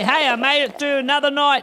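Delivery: high, loud triumphant cry; loud exclaiming. Acted. Shouting to oneself on getting out of bed, loud and high. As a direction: announce it loudly like a victory.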